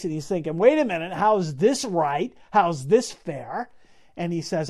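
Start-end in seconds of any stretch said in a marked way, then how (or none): 0.6-3.7 slow, drawn-out mock disbelief; dismayed protest. Samson learning his wife was given away, dismayed. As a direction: protest the unfairness, stretching the questions out slowly. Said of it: "imagine the horror on his face".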